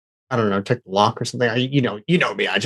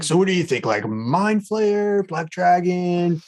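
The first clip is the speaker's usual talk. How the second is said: character voice; 6 semitones higher, slower than usual. Acted. Character voiced listing monsters.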